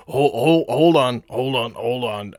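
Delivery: lightly acted sailor calling from the mast; Rex. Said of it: "you can hear Rex up in the mast".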